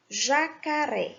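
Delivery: "jacaré" slowly with weight on final RÉ; measured "jacaré", final RÉ stressed. Shown as a demonstration. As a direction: lean on the last syllable of "jacaré". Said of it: "A sílaba tônica foi ré".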